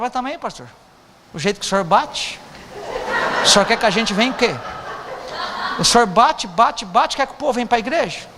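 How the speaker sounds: chuckling mock complaint; teasing complaint, laughing. Congregant teasing the pastor about his preaching, laughing. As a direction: laugh through a friendly jab. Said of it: "Aí chega outro e fala".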